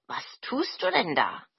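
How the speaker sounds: mildly curious question. Acted. Tokebi finds the sister beating laundry, mildly curious. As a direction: ask with a touch of curiosity. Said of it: "fragte neugierig".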